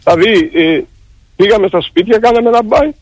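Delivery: real distress, halting toward the end; worn out and close to breaking; emotionally overwrought. Real, not acted. Exhausted striker telling the host of sleepless days, overwrought. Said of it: "εντάξει, ηρεμήστε, σας παρακαλώ".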